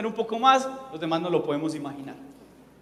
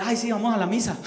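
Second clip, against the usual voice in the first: mocking imitation; 2 semitones higher than usual. Mocking an old believer's slip.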